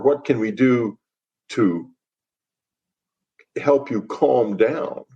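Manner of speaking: slow, soothing offer of help, drawn out at the end; gentle reassurance. Shown as a demonstration. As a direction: ease someone down from panic. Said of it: "It should have been something like".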